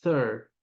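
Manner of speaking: "Thir" said as one syllable with no final ee. Shown as a demonstration. Teacher showing the English "Thir" to a learner. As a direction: say "Thir" alone, cut short. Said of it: "ele vira thir".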